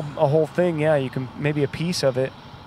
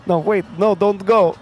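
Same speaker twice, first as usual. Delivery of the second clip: louder, pleading not to go; mock desperate plea; 5 semitones higher, 5 dB louder than usual. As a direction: beg them to stay, hammed up. Mock lovers' phone call.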